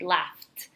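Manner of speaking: "laughed" said as "laft"; one-syllable "laughed" with an audible T; final T sound. Shown as a demonstration. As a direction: end "laughed" on F and T. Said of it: "with the T".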